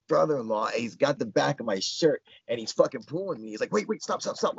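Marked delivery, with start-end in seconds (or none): 3.7-4.6 rapid, higher-pitched repeats; mildly acted frantic pleading; imitated panic. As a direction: tumble the words out as if freaked out. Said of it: "he's freaked out".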